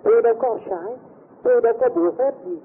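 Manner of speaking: mock indignant retort; quick denial. Accused man denying any magic, high indignant protest. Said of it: "ông cãi liền".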